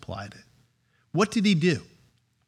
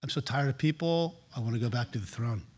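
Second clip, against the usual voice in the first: mock weary Jesus. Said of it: "he woke up in the morning and says".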